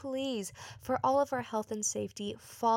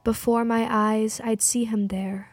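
measured poetry reading, pausing between phrases; poem recital; 2 semitones lower than usual. Acted. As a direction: recite it evenly, line by line. Poem read aloud to music.

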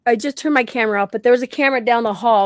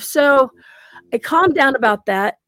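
ordinary talk

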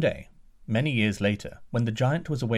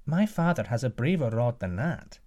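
prince's voice. Acted. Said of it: "The prince said".

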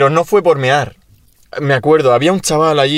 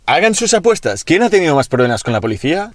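lightly put-on host pitch, higher opening; game-show host; 4 semitones higher than usual. Host asks viewers to place bets, mock presenter.

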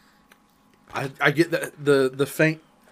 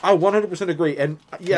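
mouth full. Real, not acted. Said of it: "I'm talking with my mouth full".

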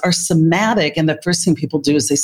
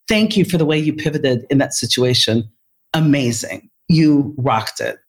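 low, measured, sincere thanks; retold appreciation, slowing toward the end; loving praise; 3 semitones lower than usual. Leader thanks the nurse for pivoting, loving and sincere. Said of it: "And I loved her up".

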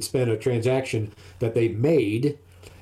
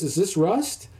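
higher, quizzical scammer asking; mock scammer question; 6 semitones higher, slower than usual. Scammer asking the seller about the car, pitched up and quizzical. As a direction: ask it as the fussy buyer, pitched up. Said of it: "And says".

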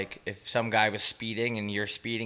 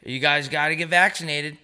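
lightly mimicked driver, pitched up; Uber driver; 4 semitones higher than usual. Uber driver telling young passengers to get vaccinated, lightly mimicked higher voice. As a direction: imitate a driver urging his passengers, raised voice. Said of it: "He goes".

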